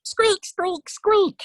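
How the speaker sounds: high-pitched squirrel squeaks; Ratatosk. Acted. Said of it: "To which Ratatosk said".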